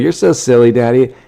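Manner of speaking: a hint of a teasing little girl; daughter's little voice. Daughter teasing daddy over his video, lightly imitated child voice. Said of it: "She's like".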